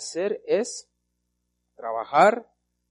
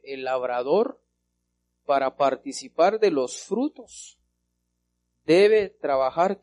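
verse read slowly, building to a loud "debe trabajar"; slow emphatic reading; 5 dB louder, slower than usual. Shown as a demonstration. Preacher reading the verse to the congregation, slow and emphatic. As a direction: lean hard on "debe trabajar", slow and rising. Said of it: "¿qué dice ahí la Biblia?".

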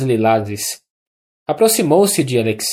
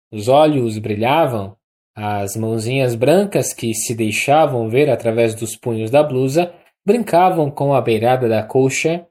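ordinary delivery, nothing marked

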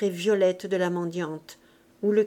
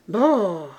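loud shivering exclamation; a burst of shivering from the cold; shivering brrr; 5 dB louder than usual. A narrator's reading. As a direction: let out a chilled brrr. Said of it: "plus frissonnant que Saint-Martin".

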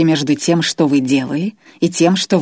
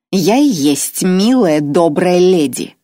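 higher, louder, slow insistence; indignant Irma; 3 semitones higher, 5 dB louder, slower than usual. Acted. Irma insists to Grois she is kind, indignant. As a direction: stamp each word of protest.

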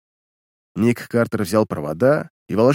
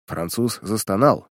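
usual speaking voice

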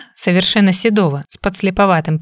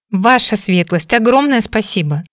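eager grateful exclamation; bursting with thanks; excited exclaim; 3 semitones higher than usual. Acted. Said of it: "воскликнула девушка".

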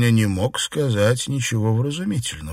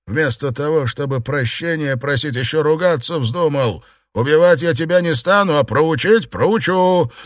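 menacing threat; 4 semitones higher than usual. Acted. Liu threatens beaten Xuepan.

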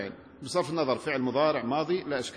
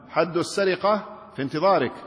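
gloating; 4 semitones higher than usual. Shown as a demonstration. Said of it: "وتريد بذلك الشماتة".

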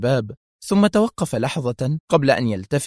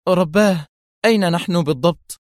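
high-pitched, anxious exclamation; alarmed; 6 semitones higher than usual. A narrator's reading. Mona notices armed guards, alarmed. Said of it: "فهتفت في انزعاج".

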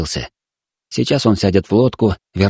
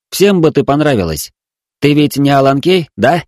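higher, sing-song coaxing; cooing to a child; 5 semitones higher, 3 dB louder than usual. Acted. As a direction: coo at her like at a toddler. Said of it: "старался ворковать". (воркуя, как с несмышлёным ребёнком)

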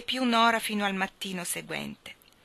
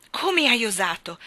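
louder, higher outraged cry; outraged exclaim; 4 semitones higher, 6 dB louder than usual. Acted. Nora rounds on Anna over the lamp, outraged. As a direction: hurl it at her in outrage. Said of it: "esclamò Nora".

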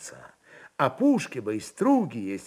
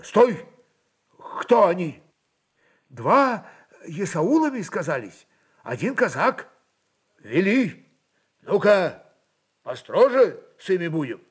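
higher, louder commanding governor; commanding voevoda; 8 semitones higher, 5 dB louder than usual. Acted. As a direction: snap orders, prepare to be stern. Voevoda orders the clerk.

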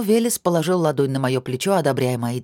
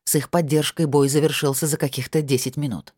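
usual speaking voice

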